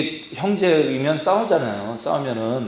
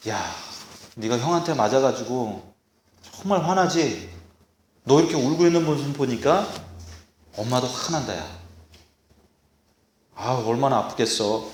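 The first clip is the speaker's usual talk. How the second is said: softer, slightly lower comforting parent; empathizing parent; 3 semitones lower, 7 dB quieter than usual. Shown as a demonstration. Parent comforting a child hit by the older brother, soft empathy. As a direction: share the child's hurt gently, unhurried. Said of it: "이해해주고 공감을 해야 돼요".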